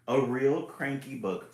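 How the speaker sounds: drawn-out grumpy book voice; cranky voice. Acted. Reading the title to viewers, grumpy and slow.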